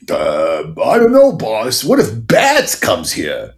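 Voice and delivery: henchman voice. Retold or imitated. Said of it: "And I'd be like".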